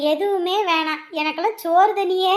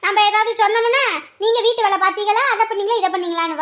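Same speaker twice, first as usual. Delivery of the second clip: raised, high-pitched tirade; loud, higher griping; scolding complaint; 4 semitones higher, 4 dB louder than usual. Acted. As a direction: rail about the daughter-in-law. Mother-in-law complains in acted quarrel.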